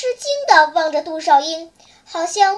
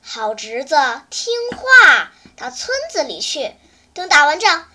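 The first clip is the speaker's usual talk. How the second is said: gentle. Acted. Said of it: "温和地说".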